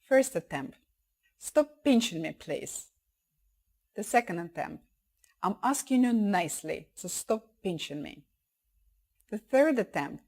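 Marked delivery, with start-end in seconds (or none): 1.4-2.9 polite but serious first request. Shown as a demonstration. Child's first attempt to stop a pinching kid, mildly serious. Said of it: "teach your child to use a serious voice". 5.4-8.2 measured, polite insistence; serious voice. Shown as a demonstration. Child's second attempt to stop pinching, serious and polite. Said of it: "teach your child to use a serious voice".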